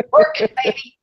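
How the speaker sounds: high, laughing, mock-sultry cheer; playful tease. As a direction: tease them like a cheerleader, giggling. Teasing about sawing for viewers.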